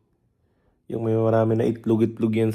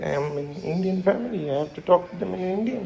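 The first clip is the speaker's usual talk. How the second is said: Indian accent, rising higher and a little softer; 5 semitones higher, 5 dB quieter than usual. Shown as a demonstration. Explaining the switch to family talk, in an Indian accent. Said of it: "magpapalit yung accent ko sa Indian accent".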